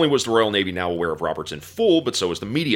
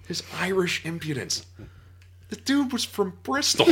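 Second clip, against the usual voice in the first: laughing; 12 semitones higher than usual. Real, not acted.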